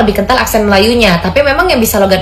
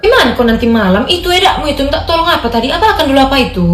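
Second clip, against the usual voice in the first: Batak accent with heavy stress, pitched up; 4 semitones higher than usual. Shown as a demonstration. Same request to a friend, now in an emphatic Batak accent. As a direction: press each word hard, Batak style. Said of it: "logat Batak dia tuh lebih khas dan ada penekanan".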